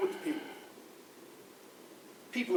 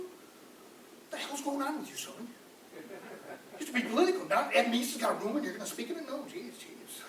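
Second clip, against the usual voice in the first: gruff friend voice; 3 semitones higher, 6 dB quieter than usual. Retold or imitated. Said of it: "they go".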